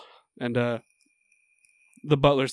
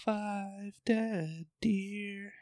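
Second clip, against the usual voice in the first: mock grim deadpan; 6 semitones higher, 12 dB quieter, much slower than usual.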